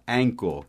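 "Ankle" said as "ENK-o", ending in a dark L; "Ankle" with the vowel of "end" and a swallowed L; correct pronunciation. Shown as a demonstration. Teacher correcting the student's "ankle" into "enk-o". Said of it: "Não é ankle".

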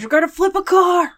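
high, loud fan yell; rowdy shout. Pretend. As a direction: yell like a rioter. Mock rioting sports fans.

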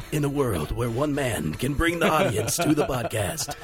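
slow, booming trailer announcer; in a world, movie trailer read. Pretend. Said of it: "everybody's requesting that trailer voice".

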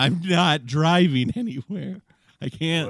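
put-on high, slow, drunken protest; high slow drunk whine. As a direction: whine like you've had too many. Acted drunk refusal.

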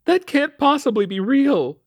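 very high, loud, incredulous protest; insistent disbelief. A narrator's reading. Mother disputes town website warning, insistent. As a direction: refuse to believe it, slow and high. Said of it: "she insisted".

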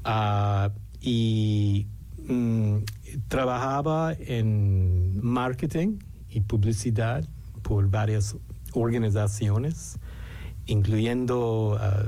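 Spanish with an American accent; New Yorker speaking Spanish, American accent. Real, not acted. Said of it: "mi español no es muy bueno".

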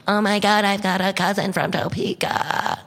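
excited. Retold or imitated. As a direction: gush like a thrilled audience member. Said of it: "And they get all excited".

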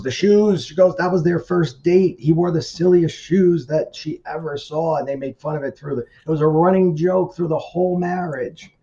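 high, loud, gushing delight; bubbling over as she remembers the joke; excited retelling. Retold or imitated. Friend excitedly tells the story of the silly shoes, high and loud.

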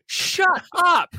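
high, incredulous mock scolding; scornful elder. Old-country parent dismissing a child's sadness, high scornful scold. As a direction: scoff at the complaint like a hard old parent. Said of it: "You're like".

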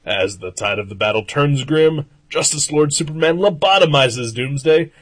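dramatic recap narrator; punchy dramatic comic narration. Acted. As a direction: read it like a radio drama. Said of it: "It's like a little radio drama".

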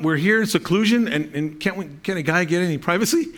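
a hint of whiny complaint, fast at the end; mock annoyed disciples. Preacher voicing annoyed disciples wanting privacy, mock whiny. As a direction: grumble like put-out disciples. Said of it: "to them, it was like".

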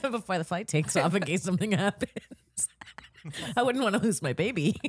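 laughing mock whisper; teasing her friend with a mock-tender whisper. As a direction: whisper it like a sappy confession.

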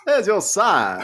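slow put-on Southern catchphrase; hammed-up Southern twang; mock Southern accent. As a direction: drawl it back as a Southern tag.

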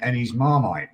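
put-on playful Australian accent on Marmite. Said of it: "That, that's Australian accent".

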